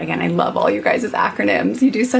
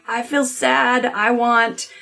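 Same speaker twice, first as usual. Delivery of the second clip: put-on child voice; 4 semitones higher than usual. Child's play voiced in story.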